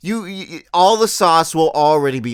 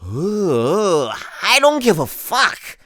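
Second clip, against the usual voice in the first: mock awe; 4 semitones higher, much slower than usual. Mocking fireworks awe.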